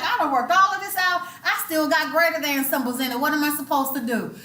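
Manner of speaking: put-upon student, mildly exasperated; frustrated student. Acted. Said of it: "You're like".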